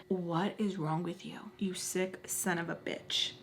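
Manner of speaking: hushed, under-the-breath retort; soft retold inner curse; disgusted undertone. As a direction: mutter it in quiet disgust, dropping to a near whisper. Retold reaction to assailant.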